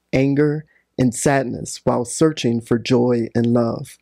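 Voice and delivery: measured, solemn reading of a passage; reading aloud. Acted. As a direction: read it like a sacred text.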